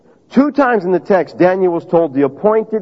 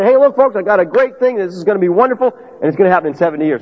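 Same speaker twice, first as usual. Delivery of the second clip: mock sales pitch; faster than usual. Preacher mocking a hyped promise to his congregation, mock sales pitch. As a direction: sell it like a too-good deal. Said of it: "If I say".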